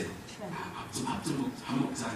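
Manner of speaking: hushed, whispered 밥 먹자; Jesus whispering an invitation to eat. Acted. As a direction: murmur it like a gentle secret. Jesus voiced inviting disciples.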